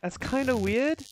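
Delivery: crackling, clipping mic; distorted, crackly mic audio. Real, not acted. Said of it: "your mic is crackling".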